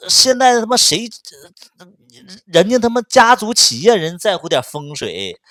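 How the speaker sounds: loud, high furious scolding; angry outburst. Retold or imitated. To her ex about his father, furious shouting. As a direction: yell it at him, fed up. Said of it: "我就咔咔一顿骂".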